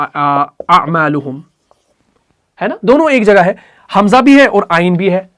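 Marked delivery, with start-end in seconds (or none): 0.0-1.4 अमालुहुम drawn out slowly; slow recited example. Shown as a demonstration. Teacher recites the example word slowly. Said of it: "जैसे मैं आपको एक मिसाल दूं".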